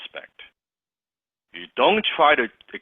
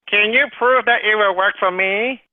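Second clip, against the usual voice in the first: high, louder whiny prospect; 10 semitones higher, 4 dB louder than usual. Acted. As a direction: whine like a doubtful customer. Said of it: "use that whiny voice for every single objection".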